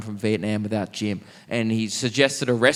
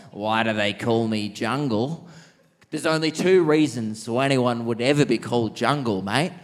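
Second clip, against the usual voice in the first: put-on old bloke relishing. Jungle repeats the question.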